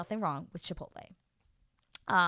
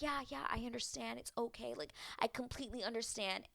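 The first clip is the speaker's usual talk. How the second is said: hushed, higher imitation of understanding; quiet, placating retelling; soft reassurance; 4 semitones higher, 9 dB quieter than usual. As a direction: imitate gentle reassurance, very softly. Groom reassuring her up close.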